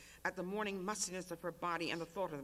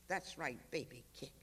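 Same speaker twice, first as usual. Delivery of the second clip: put-on low and softer, talking to the baby inside; soft tearful coaxing; 4 semitones lower, 4 dB quieter than usual. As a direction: coax the unborn child through tears. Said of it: "She cried".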